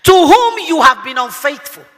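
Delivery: slow solemn reading of scripture. Acted. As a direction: read the verse slowly and weightily. Preacher reading scripture slowly.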